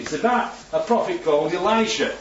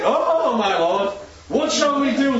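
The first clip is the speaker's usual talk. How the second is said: panicked servant; 7 semitones higher, slower than usual. Acted. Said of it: "the servant asked".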